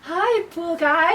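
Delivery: slow, high, gushing fan greeting with a laugh; starstruck fan. Pretend. To the pool guy, a giggling starstruck fan greeting. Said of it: "Okay, okay".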